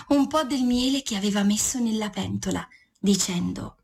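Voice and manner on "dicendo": ordinary delivery, nothing marked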